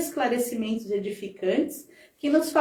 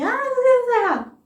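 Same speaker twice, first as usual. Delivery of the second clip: high, louder whiny complaint voice; mock complainer; 13 semitones higher, 6 dB louder than usual. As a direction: mimic someone griping at you. Mimicking a complainer. (imitação aguda e chorosa de quem reclama)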